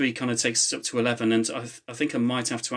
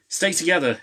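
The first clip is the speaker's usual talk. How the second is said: high raised shout; 6 semitones higher, 4 dB louder than usual. A narrator's reading. Jack shouting to the team, high and raised. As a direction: call the team to stay close. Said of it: "shouted Jack".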